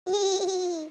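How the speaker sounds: short, thin "eee" giggle; a little acted giggle when caught out; sheepish giggle. Woman caught out by her friend, sheepish giggle.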